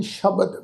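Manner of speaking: ਸ਼ਬਦ with an initial "sh" sound; dotted sassa. Shown as a demonstration. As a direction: open ਸ਼ਬਦ on "sh", not plain "s". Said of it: "ਸੱਸੇ ਪੈਰ ਬਿੰਦੀ ਲਗਾ ਕੇ". (ਸ਼ਬਦ ਵਿੱਚ ਸੱਸੇ ਪੈਰ ਬਿੰਦੀ ਵਾਲਾ ਸ਼)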